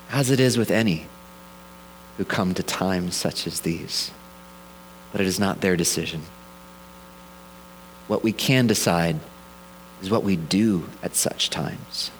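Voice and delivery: low, grave wise-wizard voice; Gandalf. Retold or imitated. Pastor voicing God as a wise wizard, low and grave. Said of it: "I can almost hear God's voice and Gandalf's voice".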